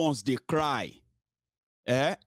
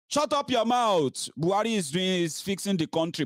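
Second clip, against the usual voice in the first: mock dismissive; 6 semitones higher than usual. Mocking supporters silencing critics.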